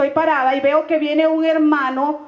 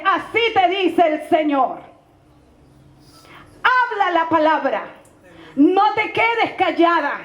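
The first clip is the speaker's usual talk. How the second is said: solemn prophecy. Retold or imitated. Praying woman gives the pastora God's message, solemn and deliberate. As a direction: pronounce each command deliberately, with long pauses.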